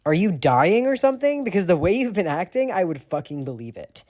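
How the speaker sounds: loud, high, sarcastic snarl. A narrator's reading. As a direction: snarl it mockingly. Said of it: "Sirius snarls".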